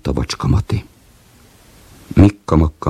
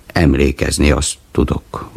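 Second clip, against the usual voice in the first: grumbling; 2 semitones lower than usual. Acted. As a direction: grumble it, unhurried.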